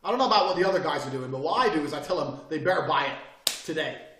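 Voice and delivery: loud mock sales pitch to the boss; half yelling. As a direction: push the pitch at the meeting, loud and quick. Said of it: "I was half yelling".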